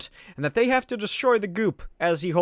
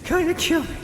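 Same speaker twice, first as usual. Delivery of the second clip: much higher, strained cries; desperate as it eats you alive; high frantic anguished cries; panicked struggle; 10 semitones higher than usual. Acted. Peter struggles with the suit.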